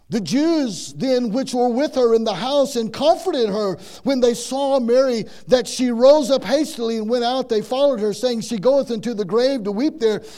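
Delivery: loud, high, fervent sermon cadence; preaching at full force. Acted. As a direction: lift the scripture reading into full-force preaching.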